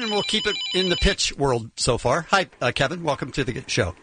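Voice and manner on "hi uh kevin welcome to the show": low, hesitant radio welcome; fumbled greeting. Real, not acted. Host greeting a caller, fumbled and low. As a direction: let the greeting sag and stumble. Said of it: "let me try that again".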